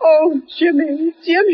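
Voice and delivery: a catch of tears in the voice; tearful. Acted. Old aunt finding the family fortune, tearful with relief. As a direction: overcome with happy tears. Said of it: "Don't cry".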